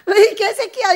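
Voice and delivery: mock curse through laughter; laughing mock curse. Preacher laughing, quoting the rude woman. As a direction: laugh while you fake the insult. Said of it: "이러는".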